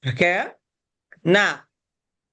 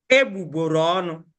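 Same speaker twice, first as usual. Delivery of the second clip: "Egbugboro ọnụ" quickly, in one unbroken run; joined together; faster than usual. Shown as a demonstration. Teacher showing learners the joined pronunciation, "Egbugboro ọnụ" run together fast. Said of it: "Join it together".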